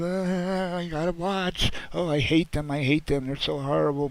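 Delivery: lightly voiced hypocrite fan; mocking viewer voice.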